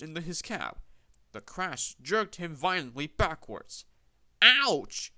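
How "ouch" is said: high, loud sudden ouch; startled ouch. A narrator's reading. Peter Sam hit by the cold water, startled yelp. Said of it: "he shivered".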